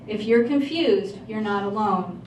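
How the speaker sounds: usual speaking voice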